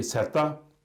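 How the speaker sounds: सैता spoken slowly, each syllable clear; Swedish letter Z. Shown as a demonstration. Teacher giving the Swedish name of Z, slow and careful. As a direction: say सैता slowly, sai then ta. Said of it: "Z के लिए".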